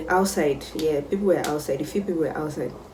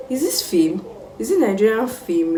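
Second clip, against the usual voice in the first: mock-disbelieving, higher-pitched question; incredulous; 5 semitones higher than usual. Daughter hearing the story told to parents, incredulous. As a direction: scoff at an absurd tale.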